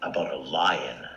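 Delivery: hushed whisper for the lion; soft whispered aside. A narrator's reading. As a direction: breathe it like a secret.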